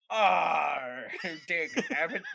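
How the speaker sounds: laughing pirate shout. Retold or imitated. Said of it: "How many".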